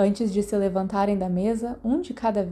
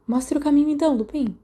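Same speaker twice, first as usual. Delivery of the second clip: grand, louder, higher call to lead the way; grandiose; 6 semitones higher, 3 dB louder than usual. Acted. James grandly tells Lupin to lead the way, showy call. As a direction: play the showman inviting Remus forward. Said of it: "James gesticulou grandiosamente".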